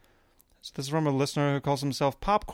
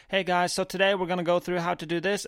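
YouTuber intro; 4 semitones higher than usual. Retold or imitated. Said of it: "the guy's like".

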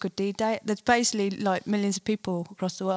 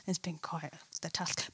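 whispering; 4 semitones lower, 11 dB quieter than usual. Real, not acted. Whispered aside.

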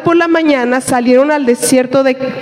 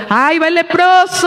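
calling out; 5 semitones higher than usual. Acted. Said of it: "tenían que estar tapados y estar gritando".

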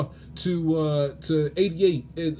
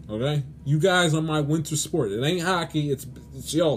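ordinary delivery

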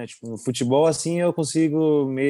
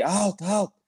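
alta, alta called out high, a mild mock call to a teammate; a goalkeeper's call, done lightly; calling out on the pitch; 8 semitones higher than usual. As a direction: goalkeeper calls alta to the defender. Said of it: "eu falei".

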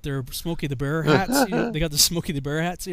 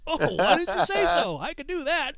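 high-pitched naive reply; hammed-up sudden understanding; relieved recruit; 11 semitones higher than usual. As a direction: answer brightly as if it is obvious.

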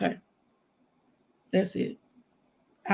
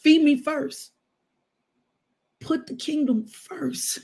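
commanding man of God; 3 semitones higher, slower than usual. Retold or imitated.

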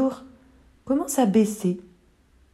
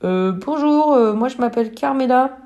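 intimidée; 4 semitones higher than usual. Acted. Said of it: "un peu intimidée".

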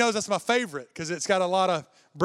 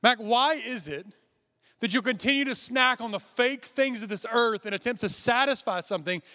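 voice of God; 4 semitones higher than usual. Retold or imitated. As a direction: speak as God gently rebuking. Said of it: "And God said".

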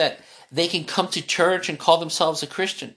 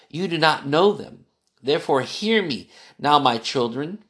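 lower, measured reading of Proverbs; a solemn Bible reading to a child; scripture reading; 3 semitones lower than usual. Acted. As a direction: read the verses steadily, like scripture. Reads Proverbs aloud.

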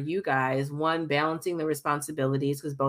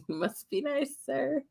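slow, dry sarcastic jab; 9 semitones higher, 6 dB quieter, slower than usual. Acted. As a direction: tease him with slow sarcasm. Sarcastic reply to husband's line.

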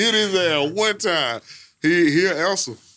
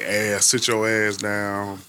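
mother's mild cussing; 6 semitones lower, much slower than usual. Retold or imitated. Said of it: "slight, like".

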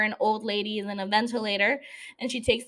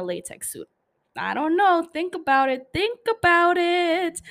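teasing interrogation; 3 semitones higher than usual. Real, not acted. Teasing questioning of Vivian.

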